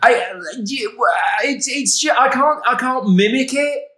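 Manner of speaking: high giggly voice; real giggles breaking the words; laughing through words. Real, not acted. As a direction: squeak it out while cracking up. Giggling after controversial rant.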